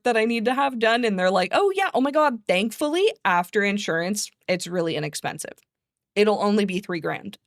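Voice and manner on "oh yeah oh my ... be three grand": mock cheery clerk. Mocking cheerful dental office.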